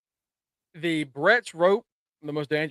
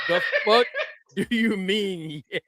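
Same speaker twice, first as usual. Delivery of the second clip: laughing quote. Retold or imitated. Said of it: "I said, I said".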